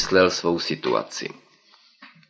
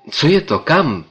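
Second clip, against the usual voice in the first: high, louder startled question; astonished; 9 semitones higher, 5 dB louder than usual. Acted. Narrator asks the professor, amazed and high. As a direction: ask it in sheer amazement. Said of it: "ptal jsem se úžasle".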